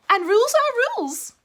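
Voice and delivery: high, loud triumphant ruling; frog declaring. Acted. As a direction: proclaim it like a law. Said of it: "said the frog".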